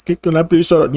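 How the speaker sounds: sing-song helpful service rep voice; mock customer service rep. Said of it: "Talk about".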